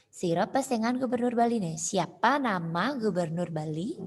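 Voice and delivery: both "Sira pesengan Gubernur Bali ne?" and its translation put as questions; questioning intonation. Shown as a demonstration. Teacher asking who the Governor of Bali is, questioning intonation. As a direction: ask "Sira pesengan Gubernur Bali ne?", then "Siapa nama Gubernur Bali?" lifting at the very end. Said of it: "Intonasinya juga intonasi bertanya".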